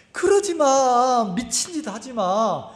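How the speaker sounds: high, drawn-out plea that settles down; protesting inner voice. Retold or imitated. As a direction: act out your heart begging you to stop. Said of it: "내 마음이란 놈이 뭐라고 하냐면". (길게 늘여 말리는 속마음)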